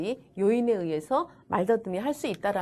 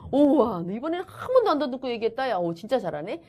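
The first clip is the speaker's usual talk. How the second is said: praise. Acted. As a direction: marvel at the child's success, then settle. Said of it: "그거를 칭찬해 주는 거".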